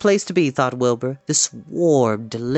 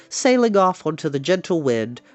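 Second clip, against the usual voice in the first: usual speaking voice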